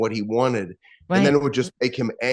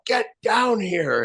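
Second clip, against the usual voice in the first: slow, much higher mock yell of a father; retold yell; 9 semitones higher, much slower than usual. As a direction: imitate the father calling down the stairs, drawn out and high. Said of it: "he'd scream and yell".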